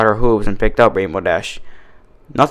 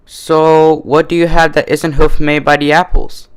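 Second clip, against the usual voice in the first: Carrot Top voice; 5 semitones higher than usual. A narrator's reading. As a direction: brush off the warning in a high, cocky voice.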